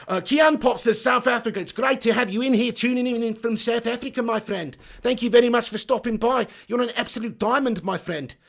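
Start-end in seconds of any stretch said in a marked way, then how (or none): 1.0-8.3 lightly put-on South African accent reading the comment; a hint of South African vowels, friendly. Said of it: "I'll go back to the South African accent then".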